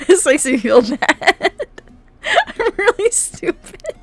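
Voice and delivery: high, loud, slow fake crying wail; mock sobbing whine. Streamer wailing to chat about losing at chess, mock sobbing. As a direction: overplay the sobbing, loudly.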